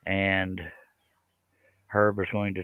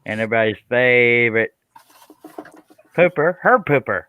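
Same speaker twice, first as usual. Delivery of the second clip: playful introduction; 4 dB louder than usual. Pretend. Host introduces a panel regular, playful announcer introduction. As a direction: announce the favorite with playful fanfare.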